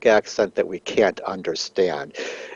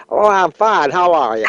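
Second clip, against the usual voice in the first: higher, casual off-camera reply; offhand chatty answer, pitched up; off-air newscaster; 7 semitones higher, 3 dB louder than usual. Retold or imitated. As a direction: imitate an anchor dropping the on-air voice. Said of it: "his voice totally out of the".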